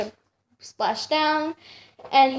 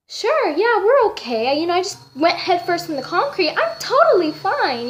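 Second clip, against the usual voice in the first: sarcastic; 5 semitones higher than usual. Retold or imitated. Sarcastic retelling of being fine.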